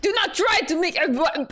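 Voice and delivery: attempted Russian accent. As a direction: start scolding in a rough Russian accent, then break off. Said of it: "I'm not very good at Russian accents".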